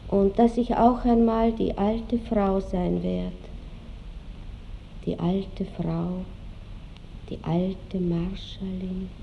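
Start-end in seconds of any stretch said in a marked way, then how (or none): 5.0-9.1 slow, low and subdued; brooding. Acted. Marschallin picturing herself as an old woman, slow and subdued. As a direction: dwell slowly and softly on each word.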